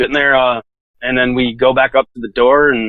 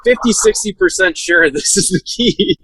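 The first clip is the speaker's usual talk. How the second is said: higher, slow, hesitant imitation of an unsure guy; unsure maintenance guy; 5 semitones higher, slower than usual. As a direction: drag it out like you're not sure at all. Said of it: "and he goes".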